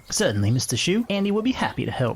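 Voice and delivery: obliging neighbor in West Virginia speech; West Virginia accent. Acted. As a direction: agree readily in a lilting West Virginia accent. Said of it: "trying to do a West Virginia accent".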